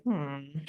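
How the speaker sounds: soft, low "hmm"; a quiet little hum of wanting; wistful hmm under the breath; envious hum. Acted. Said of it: "envy bells or, like".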